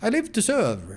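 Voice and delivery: grim, proud tone. Voicing a sergeant replying to praise in a game scene, grim with martyr's pride. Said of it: "The sergeant's grim voice rings with a martyr's pride".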